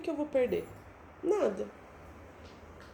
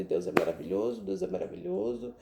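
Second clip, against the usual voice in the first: laughing; 5 semitones lower, 4 dB quieter than usual. Retold or imitated. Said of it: "Eu comecei a dar gargalhada".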